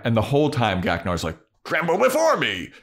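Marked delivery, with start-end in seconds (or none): 1.6-2.7 demon voice. Retold or imitated. Demon shouting repeatedly.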